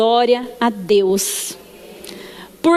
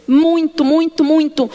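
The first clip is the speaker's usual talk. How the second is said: joyful emphasis; 2 semitones higher, 3 dB louder, slower than usual. Real, not acted. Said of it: "eu fiquei muito feliz".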